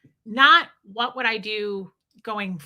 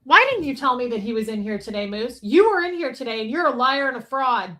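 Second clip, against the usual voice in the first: mock accusation; 3 semitones higher, 5 dB louder than usual. Streamer calls out Moose in chat, mock accusing. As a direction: playfully call them out as a fraud.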